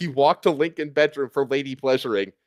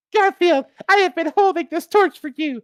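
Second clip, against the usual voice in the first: much higher, hammed-up falsetto of desire; searing desire. A narrator's reading. Lady Liberty tempting Garfield, hammed-up high falsetto. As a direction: purr it in a high mock seductive voice. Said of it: "said Lady Liberty with searing desire".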